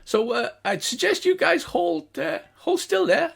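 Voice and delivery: high, slow gnome voice; gnome guard. Acted. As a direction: ask them to hold still. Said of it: "And he goes".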